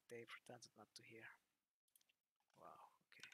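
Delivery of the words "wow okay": breathy whispered wow; barely voiced, taken aback; stunned whisper. Real, not acted. Player whispering to himself at the odd encounter, stunned.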